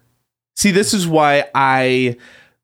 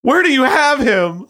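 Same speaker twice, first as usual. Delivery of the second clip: intense demand; 14 semitones higher than usual. Acted. Acted emotional demand in improv.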